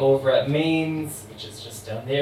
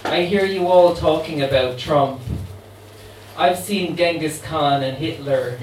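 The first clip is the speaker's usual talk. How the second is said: a light hint of a New Orleans accent; 4 dB louder than usual. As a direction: voice the immortal voodoo queen with a faint New Orleans accent. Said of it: "try and do it in her accent".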